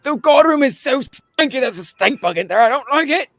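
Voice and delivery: high, whiny complaint; whining guard. Acted. Game master voicing guards telling others about the stink, high whine. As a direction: complain like a grossed-out kid. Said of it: "they're like".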